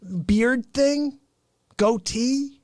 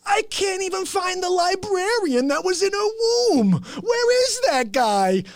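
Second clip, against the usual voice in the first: imitating Fauci; 7 semitones higher than usual. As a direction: mimic his nonsense bewildered. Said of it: "He goes".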